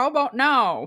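put-on silly grandpa voice, loud, high and playfully teasing.

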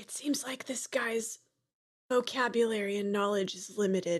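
whispered aside. Whispering a private remark to a companion: whispering. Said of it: "I whisper to Crunk".

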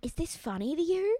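soft, high, hushed half-whisper. Retelling what a girl at the table in front asked: imitating a half-whisper. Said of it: "and she whispered".

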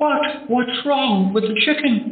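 pitched way up, high and fluttery TV cook voice. Retelling an on-air bit as Julia Child: Julia Child voice. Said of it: "as Julia Child".

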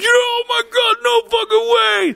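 very high, elated, stretched-out shout, acted out. Retelling a friend's reaction to seeing the airport: imitating someone yelling excitedly. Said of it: "he starts yelling".

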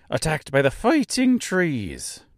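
odd, weird, slight half-Irish accent. Recapping episodes, repeating an episode title in a weird irish tone. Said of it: "I get like a weird Irish tone".

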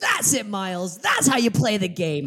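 put-on loud, high cheering scream. Recounting watching a game with friends, retelling own screaming at the projectors. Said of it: "I was screaming".

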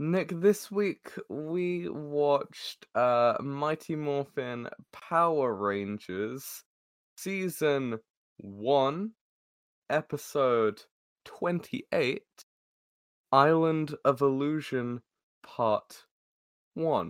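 slow, deliberate, unhurried, drawn-out delivery. Speaking to nick while looking up the episode number, saying it slowly. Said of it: "Why did you say that so slowly?".

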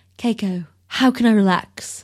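put-on British accent. Acting out a British character's lines: British accent as Bill. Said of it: "I forgot he's British".

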